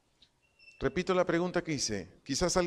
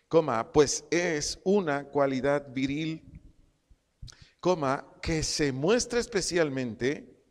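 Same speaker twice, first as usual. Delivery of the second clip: dictation. Shown as a demonstration. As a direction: dictate it so they can write it down. Dictates definition, naming each comma.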